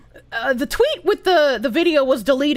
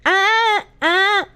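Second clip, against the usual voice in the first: imitating a tongue-out lick; tongue stuck out; 3 semitones higher than usual. Shown as a demonstration. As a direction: open "ah" with the tongue out. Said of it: "sticks her tongue all the way out".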